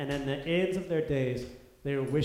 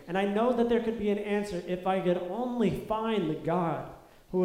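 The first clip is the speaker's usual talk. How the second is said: pleading lament; 6 semitones higher, 4 dB louder than usual. Pretend. Voicing suffering Job's lament.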